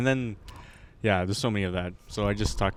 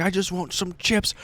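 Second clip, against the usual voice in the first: higher, softer, slow mock plea; pleading beggar; 5 semitones higher, 5 dB quieter than usual. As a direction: imitate a beggar pleading with the worker. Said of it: "He's like".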